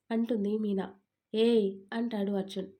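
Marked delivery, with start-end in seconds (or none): 1.3-1.7 louder, stern one-word rebuke; sharp warning. Acted. Husband stopping his wife's sulking, a louder stern warning. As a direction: cut her off, stop that. Arjun cuts off Meena's sulking.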